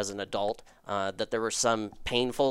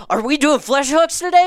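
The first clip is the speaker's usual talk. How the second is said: high, loud eager squeal; thrilled at the sight of the hooks; excited; 11 dB louder than usual. Retold or imitated. Walking up to the mentor's table, squealing with excitement. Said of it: "he was so mad that I was excited about it".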